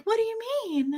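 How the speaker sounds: high-pitched mock-innocent question; sweetly oblivious mimicry in a high voice; innocent, doe-eyed. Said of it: "these innocent little doe-eyed creatures".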